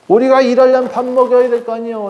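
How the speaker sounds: high mock protest from hungry slaves; complaining slaves. Preacher mimicking slaves crying out for food, high mock complaint. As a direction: whine the demand like an entitled servant. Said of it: "라고 외쳤던 거지".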